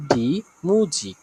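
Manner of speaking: "মিউজিক" slowly, ending in ik; demonstrated pronunciation. Shown as a demonstration. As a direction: stretch out "মিউজিক" as a model for learners. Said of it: "উচ্চারণটা হবে ইক উচ্চারণ করবে".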